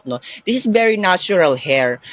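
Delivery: ordinary delivery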